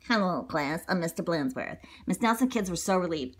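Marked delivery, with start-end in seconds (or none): 0.1-1.8 low, soft, dull greeting; a touch of a boring principal. Acted.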